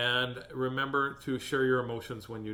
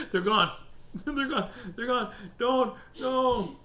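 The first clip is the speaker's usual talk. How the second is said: higher, louder, giddy; excited; 11 semitones higher, 4 dB louder, slower than usual. Real, not acted. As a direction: squeal with delight. Excited about hiccups.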